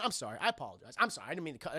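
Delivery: a pretend cowering apology, dropping low and soft; meek mock apology. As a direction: play it small and fake-apologetic. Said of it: "Steve's like".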